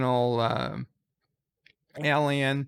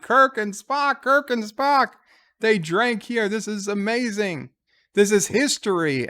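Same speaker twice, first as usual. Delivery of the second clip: much higher, gushing fanboy awe; excited fan; 6 semitones higher than usual. Retold or imitated. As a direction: squeal it out like a starstruck fan. Fan gushing over Kirk and Spock.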